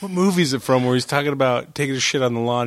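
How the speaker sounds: usual speaking voice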